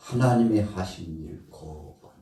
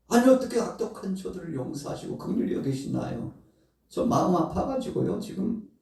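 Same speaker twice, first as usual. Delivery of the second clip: high, plaintive protest; whiny complaint; 12 semitones higher than usual. Acted. Jonah answering God, high aggrieved complaint. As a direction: plead your hurt in a high voice.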